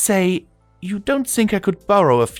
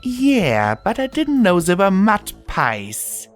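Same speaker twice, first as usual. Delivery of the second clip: put-on high, louder, indignant young voice; girlish growl; 12 semitones higher, 4 dB louder than usual. A narrator's reading. Daughter cross over mud pies, high indignant protest. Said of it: "she growled".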